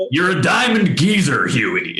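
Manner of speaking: a light, playful Cockney geezer; mock Cockney line. Actor imitating Seth reading Cockney slang to Huey, light Cockney. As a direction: toss it off in a jokey Cockney lilt.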